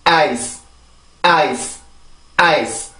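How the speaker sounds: 아이스 as English "ice", stressed vowel, short soft S; soft final S. Shown as a demonstration. Teacher modelling for repetition, 아이스 with soft final S. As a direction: end 아이스 on a light S with no added 으 vowel. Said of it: "아주 부드럽게 발음을 해주세요".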